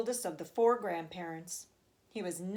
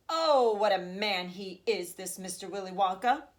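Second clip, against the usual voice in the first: louder, delighted exclamation; eager cry; 5 dB louder than usual. Acted. Grandfather praising Wonka to Charlie, eager louder cry. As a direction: burst out with glee like a young boy. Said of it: "cried Grandpa Joe".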